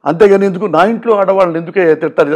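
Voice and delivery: softly imitating a tearful brother; a mild, hushed hint of tears; quietly retelling a hurt plea. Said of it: "కన్నీళ్ళు పెట్టుకుని మాట్లాడుతుంటే".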